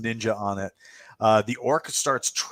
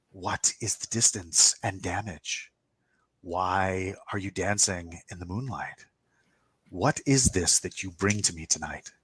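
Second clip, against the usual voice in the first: playful woman's voice; 4 semitones lower, 4 dB quieter than usual. Acted. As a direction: lightly play a teasing creature, unhurried and hushed. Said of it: "it's a woman's voice, and it's playful".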